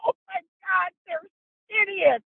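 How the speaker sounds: high, slow, shouted exasperation; exasperated exclaim. Retold or imitated. Mother scolding son and friends for alligator hunting, high and slow. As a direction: drag it out in amused dismay.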